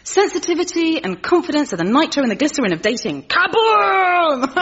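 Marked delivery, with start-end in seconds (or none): 3.2-4.6 laughing exclamation. Real, not acted.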